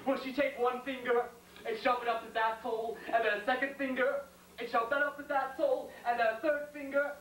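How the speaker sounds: insistent questions climbing in pitch; building jealous rant. Acted. Soldier imagining his lover's girl, a mounting jealous rant. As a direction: pile up each question, stretching the last one.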